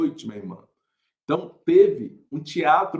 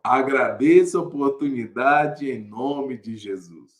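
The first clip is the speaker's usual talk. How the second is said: slower, lower church thanks; mildly acted solemn sign-off, drawn out; nervous child's slip; 4 semitones lower, slower than usual. Shy boy thanking the church by mistake, slow and low. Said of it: "eu falei".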